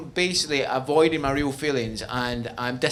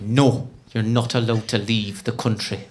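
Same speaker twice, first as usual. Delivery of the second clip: put-on Northern Irish accent; 5 semitones lower than usual. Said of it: "not a great Northern Irish accent".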